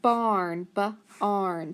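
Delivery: ba-arn drawn out; teacher stretching the word barn; stretched barn. Shown as a demonstration. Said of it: "We have the word".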